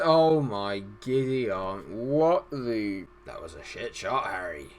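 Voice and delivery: low, put-on giant's exclamation; Hagrid. Commentator scolding Harry for a bad shot, low impression. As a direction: drop low and drag out the disbelief. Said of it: "It's my Hagrid impression there".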